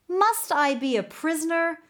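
high indignant retort. A narrator's reading. Young king snapping back at the prime minister. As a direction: snap back like a cooped-up boy. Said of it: "the young king retorted".

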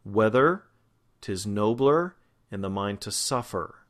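"nobler" and "suffer" end in unstressed er; unstressed schwars. Shown as a demonstration. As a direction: pause after "Whether", showing its weak er ending. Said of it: "So you've got er".

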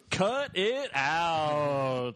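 slow, drawn-out put-on voice; slow mocking echo of cut it out; mock impression. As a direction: stretch it out in a silly character voice. Mock repeat after gasp.

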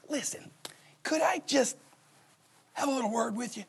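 whispered confidential request; soft secretive whisper; hushed aside. Retold or imitated. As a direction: lean in and whisper it. Confidential word on the side.

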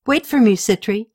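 a mild call down the hall. Acted. Queen calling to her niece down the hallway, mild call. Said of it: "Yuni called down the hallway".

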